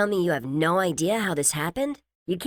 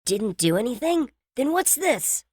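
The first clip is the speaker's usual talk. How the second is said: much higher accusing cry; mock shout; 3 dB louder than usual. A narrator's reading. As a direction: call him out, indignant. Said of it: "she shouted".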